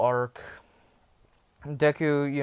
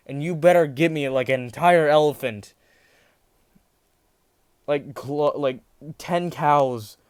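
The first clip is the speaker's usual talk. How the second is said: stern, louder, higher demand; 3 semitones higher, 5 dB louder than usual. Retold or imitated. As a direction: lay down the law, loud and stern. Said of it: "goes into a stern voice".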